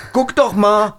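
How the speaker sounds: high startled cry to the others; excited. Acted. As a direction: point it out in sudden alarm. Spots something in fog.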